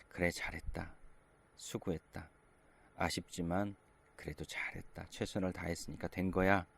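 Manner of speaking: a father's quiet, kind reassurance; tender praise. Retold or imitated. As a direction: console your son softly. Father comforting disappointed son.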